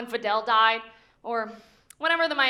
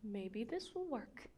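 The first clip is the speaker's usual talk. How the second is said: quiet aside; 3 semitones lower, 15 dB quieter, slower than usual. Real, not acted. Muttering to himself before starting.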